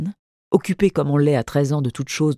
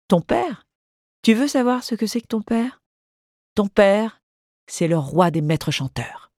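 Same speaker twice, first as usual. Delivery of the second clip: high, sly teasing voice; mischievous; 6 semitones higher than usual. A narrator's reading. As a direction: let the mischief light up the words. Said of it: "sa malice supérieure rajeunissait soudain tout son visage".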